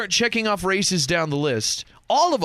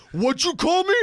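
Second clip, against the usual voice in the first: mock offended; 8 semitones higher than usual. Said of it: "turns around and goes".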